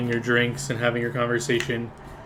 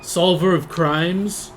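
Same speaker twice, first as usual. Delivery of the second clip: slow, intrigued; 4 semitones higher, 5 dB louder, much slower than usual. Acted. NPC voice, drawn out.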